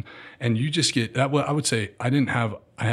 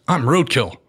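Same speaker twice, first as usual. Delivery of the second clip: pitched-up, louder imitation of a squeaky guy; high-pitched Roadkill; 4 semitones higher, 5 dB louder than usual. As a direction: announce yourself in a squeaky high voice. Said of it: "a high pitched voice".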